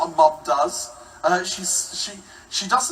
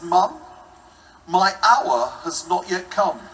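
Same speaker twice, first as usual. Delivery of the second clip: mock solemn; 3 dB louder than usual. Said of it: "I looked her in the eye and I said".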